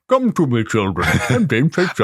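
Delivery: put-on friendly ghost luring children; a gentle, eerie invitation; soft echoing dream voice. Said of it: "I'd go to your metal hut".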